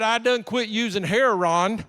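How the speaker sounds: "Heron" for heroin, drawn out; slow, emphatic dialect "Heron"; dialect pronunciation. Retold or imitated. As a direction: imitate her saying "Heron", two slow syllables like HAIR-on. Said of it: "That's heroin for all you white people".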